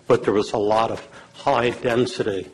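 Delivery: strained, fading voice; hoarse voice. Real, not acted. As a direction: voice giving out. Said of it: "I'm losing my voice".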